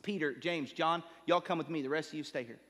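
unruffled, casual retold instruction; calm. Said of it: "he's so calm".

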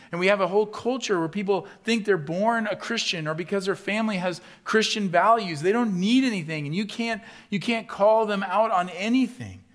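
loud, high, driving sermon voice; fiery preaching. Acted. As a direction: preach it hard to the whole room. Preaching at full force.

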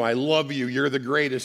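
mock scream. Shown as a demonstration. Preacher showing screaming at his dog, mild mock yell. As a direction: bark the kind words at the dog. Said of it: "And if you scream".

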